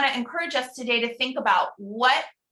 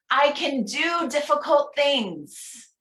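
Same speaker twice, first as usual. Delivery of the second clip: slow affirmation reading; 4 semitones higher, slower than usual. Shown as a demonstration. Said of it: "I'm gonna read each one".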